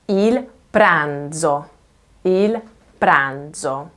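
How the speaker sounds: PRANZO slowly, with a buzzing dz; voiced z. Shown as a demonstration. Teacher contrasting with the first sound, voiced z in pranzo. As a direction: give the z in PRANZO full vibration. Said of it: "And the second is z".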